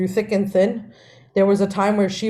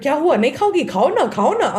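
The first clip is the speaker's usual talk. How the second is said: coaxing mom; 5 semitones higher than usual. Retold or imitated. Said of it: "she's like".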